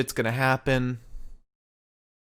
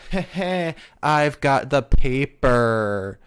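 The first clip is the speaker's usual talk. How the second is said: slow mock-gloating chuckle and boast; smug, stretched-out taunting; 4 dB louder, slower than usual. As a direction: draw it out like a hammy villain. Voicing gloating rival on screen.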